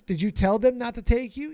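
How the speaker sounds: drill sergeant interrogating. Retold or imitated. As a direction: grill him like an angry drill sergeant.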